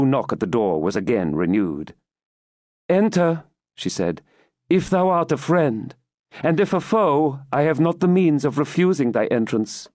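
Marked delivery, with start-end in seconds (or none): 2.9-3.4 tag. Acted. Rebecca answers knock at door. 4.7-9.9 a slightly higher, composed heroine; lightly voiced Rebecca, composed. Rebecca to whoever knocks, friend or foe, lightly voiced and composed.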